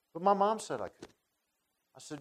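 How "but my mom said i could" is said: put-on heartbroken child. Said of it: "real heartbroken".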